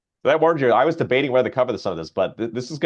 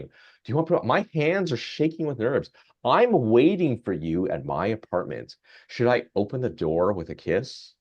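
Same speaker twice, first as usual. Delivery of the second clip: flirty chatbot. Retold or imitated.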